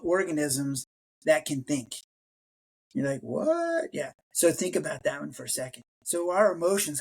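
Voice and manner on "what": very high, drawn-out "What?"; incredulous what. Retold or imitated. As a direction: stretch it out in disbelief. Listener stunned by claim.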